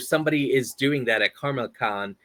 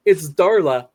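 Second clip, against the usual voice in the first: louder, mock panicked fish; mock alarm, a bit louder; Finding Nemo impression; 5 semitones higher, 6 dB louder, slower than usual. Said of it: "my Finding Nemo impression".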